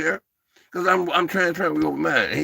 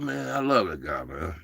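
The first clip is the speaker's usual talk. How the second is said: emotional; 8 semitones lower, 7 dB quieter than usual. Real, not acted. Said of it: "I'm getting a little emotional".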